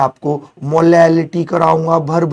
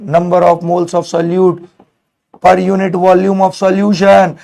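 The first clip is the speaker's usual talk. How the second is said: very slow, each word spaced out and louder; slow dictation; 3 semitones higher, 4 dB louder, much slower than usual. Shown as a demonstration. Teacher dictating the definition to his students, slow and deliberate. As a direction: dictate it so they can write it down.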